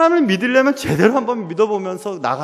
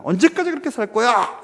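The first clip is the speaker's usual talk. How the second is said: Elijah's outcry; 6 semitones higher than usual. Acted. Elijah challenges his people, a lightly acted outcry. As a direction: call the people out in mild mock outcry. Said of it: "이렇게 외치는 것입니다".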